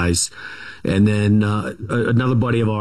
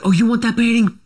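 mocking offer, pitched way up; mock taunt; 13 semitones higher, faster than usual. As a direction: taunt him as the dad, hammed-up. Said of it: "And he's like".

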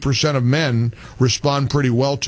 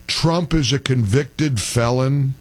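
slow, scornful repeat of the caller; sneering slow echo of the caller; mocking quote; 3 semitones lower, slower than usual. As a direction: drag it out to mock him. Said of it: "caller that says".

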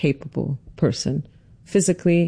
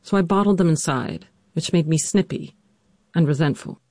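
measured, scripted storytelling read; personal essay narration. A narrator's reading. Daughter narrates her mother's illness for listeners, composed narration. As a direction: narrate your family's hard history with composure.

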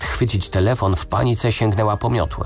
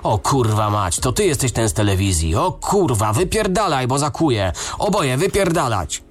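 much higher, rising panicked screaming; frenzied yelling; 7 semitones higher than usual. A narrator's reading. Farmer recognizing the TV detective, frantic shouting. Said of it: "krzyczał jak w amoku".

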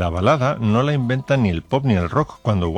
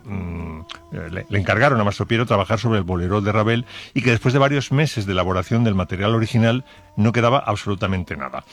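normal talking voice

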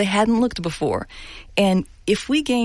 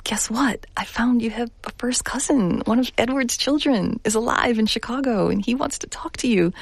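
higher, lilting telling of happy news; retold good news; 6 semitones higher than usual. Daughter telling her mother about a found cousin, retold excitement. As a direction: break the news with lifted pitch.

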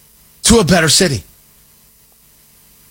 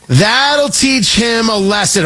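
mock triumphant shout; 5 semitones higher, slower than usual. Shown as a demonstration. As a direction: ham up the gloating. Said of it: "and that'll teach him a lesson".

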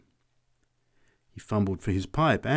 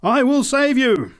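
slow, very high, loud shout; top of her voice; 8 dB louder than usual. A narrator's reading. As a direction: proclaim it at full stretch. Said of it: "at the top of her voice".

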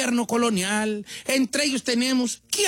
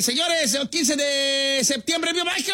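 patriotic cry; 6 semitones higher than usual. Pretend. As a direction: proclaim it like the Independence Day cry. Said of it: "el grito". (grito patriótico exagerado, agudo y lento)

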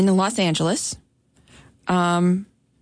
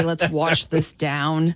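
imitating his line; 3 semitones lower, much slower than usual. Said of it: "I really love it when you say".

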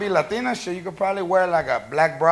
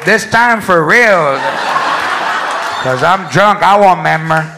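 loud, slow refusal; 3 dB louder than usual. Acted. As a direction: push back loudly. Girlfriend refuses loudly.

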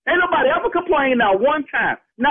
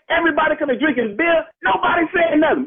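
indignant shout; 4 semitones higher than usual. Real, not acted. Host defending his tailgate to the caller, shouting. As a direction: yell it out, he's had enough. Victim yells about peaceful tailgate.

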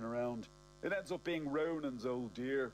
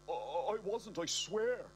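stammering, higher-pitched protest; panicked denial; 8 semitones higher than usual. A narrator's reading. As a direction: plead innocence, tripping over the first word.

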